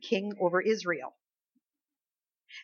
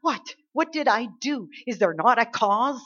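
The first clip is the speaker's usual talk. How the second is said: mock shout, raised and protesting; loud, indignant comeback, acted out; shouting back; 3 semitones higher, 4 dB louder than usual. David answering his angry brothers, shouting back. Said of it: "David shouts back and says".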